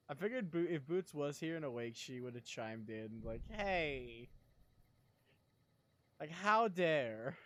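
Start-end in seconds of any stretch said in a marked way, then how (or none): 3.5-7.4 mock indignant. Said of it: "That is her catchphrase".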